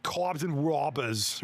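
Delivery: goofy attempt at a Boston or New Jersey accent; half-serious Boston-Jersey accent. Shown as a demonstration. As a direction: put on a rough Boston accent, dropping the R. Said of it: "I envision that would sound something like".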